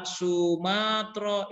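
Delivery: "Sumatera" read as Su-maa-tro with long aa; Arabic-style reading. Shown as a demonstration. Teacher shows what not to read, "Sumatera" in drawn-out Arabic style. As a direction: draw out the middle of "Sumatera", ending in -tro. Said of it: "itu jangan dibaca seperti Arabnya".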